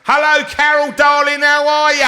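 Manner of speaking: over-the-top South African hello; mock South African accent. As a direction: try a South African greeting and miss. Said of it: "I can't do South African".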